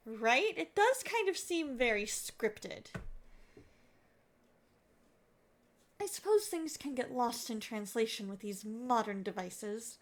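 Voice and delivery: lightly voiced grumpy old neighbour and polite caller; acted phone call. Caller warning a grumpy neighbour about his house, mildly acted. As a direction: play both sides of a tense call.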